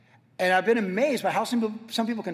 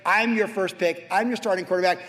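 cocky boast. Retold or imitated. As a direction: brag like the star player to the coach. Boasting to God as quarterback.

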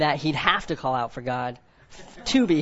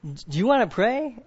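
eager offer; 6 semitones higher than usual. Retold or imitated. Offering to pray for coworker.

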